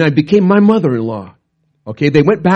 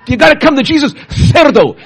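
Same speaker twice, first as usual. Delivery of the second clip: high, raised preaching cry; retold shouting; 10 semitones higher than usual. Missionary preaching to the Argentine crowd, raised and high. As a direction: call them to Jesus at full voice. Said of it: "And he was shouting".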